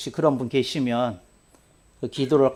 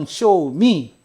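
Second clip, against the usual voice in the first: ordinary delivery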